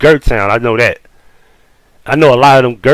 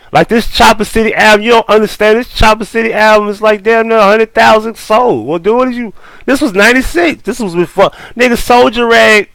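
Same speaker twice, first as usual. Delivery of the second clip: heated protest; 9 semitones higher than usual. Real, not acted. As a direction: push back hard, incredulous. Heated argument continues.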